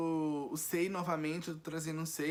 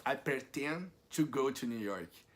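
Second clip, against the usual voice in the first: slow wrong example; slower than usual. Shown as a demonstration. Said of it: "você não pode falar jamais".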